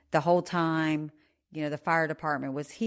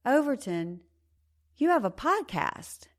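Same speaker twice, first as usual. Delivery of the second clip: surprised recognition; 8 semitones higher than usual. Retold or imitated. Fireman recognizes the surname.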